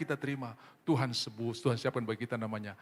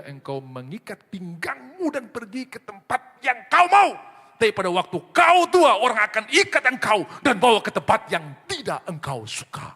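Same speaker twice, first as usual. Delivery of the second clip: voice of God; 8 semitones higher, 10 dB louder than usual. Acted. God foretelling Peter's old age, loud solemn proclamation. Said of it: "Tuhan berkata kepada Petrus".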